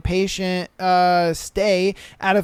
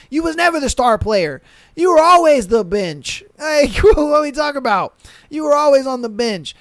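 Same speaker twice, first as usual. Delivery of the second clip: laughing through the bench line; mock her while laughing; laughing taunt; laughing mockery; 5 semitones higher, 4 dB louder than usual. Real, not acted.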